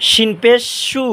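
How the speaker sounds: mid-tongue to palate, sh at the start of সু; palatal shin. Shown as a demonstration. Teacher showing viewers shin, palatal sh in সু. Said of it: "জিহ্বার মাঝখান তালু মাঝখান".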